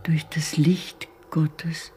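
breathy, unvoiced whisper. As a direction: whisper it like a secret prayer. Inner monologue whispered.

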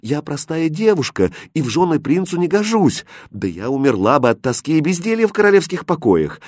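understated wistful protest; sad. A narrator's reading. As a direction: confess unworthiness with gentle sorrow. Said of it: "грустно сказала Катринка".

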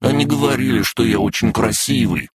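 high-pitched offended insistence; indignant. A narrator's reading. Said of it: "возмутился дракоша". (возмущённо, высоким голосом)

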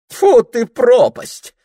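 high, loud spitting exclamation; a cook's startled shriek; startled cry. Acted. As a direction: yell awakened from sleep. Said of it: "крикнула стряпка".

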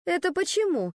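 a touch of indignant sarcasm; bristling. A narrator's reading. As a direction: push back with sarcasm. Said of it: "возбухнула Леночка".

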